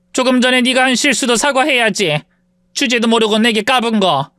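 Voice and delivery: lightly voiced sneering rich woman; haughty rich woman. Rich woman taunts her former maid, mildly sneering. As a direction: look down on her with a lazy sneer.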